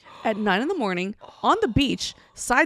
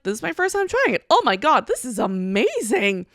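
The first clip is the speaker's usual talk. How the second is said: giddy delight; 3 semitones higher than usual. Retold or imitated. Retells first taste of soju.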